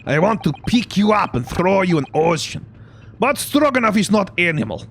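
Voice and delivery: gruff, indignant Russian sailor; Russian accent. Acted. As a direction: grumble it forcefully in a Russian accent. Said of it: "Russian accent when I'm trying to do that voice".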